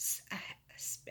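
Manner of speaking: soft, whispered, stuttering and stammering speech.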